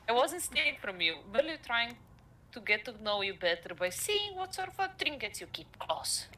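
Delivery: put-on light Russian accent; a hint of a Russian thief. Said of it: "how did you like my Russian".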